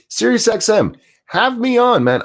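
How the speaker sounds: mock pleading. Pleading to the radio host.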